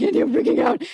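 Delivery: high-pitched mock freak-out; retold panic. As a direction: squeak it out like a panicked text to a friend. Retelling her panicked texts to friend.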